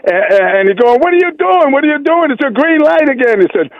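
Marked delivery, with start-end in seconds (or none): 1.0-3.4 higher, hammed-up frantic passenger; mock-hysterical passenger. Caller's joke passenger pitched up in mock panic at a green light. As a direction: squeal at the driver in mock panic.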